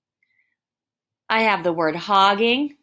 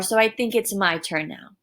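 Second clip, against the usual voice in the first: kind request. Shown as a demonstration. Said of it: "it is the kinder moment".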